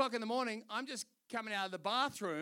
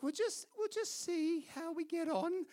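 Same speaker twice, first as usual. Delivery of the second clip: quoted pilot; 8 semitones higher than usual. Retold or imitated. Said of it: "She's like".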